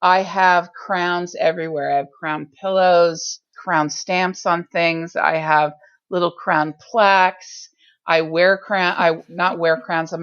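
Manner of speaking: slow, grand fake royal voice; fake Elizabethan voice. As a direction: speak like a queen, slowly. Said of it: "I get to use this fake Elizabethan voice".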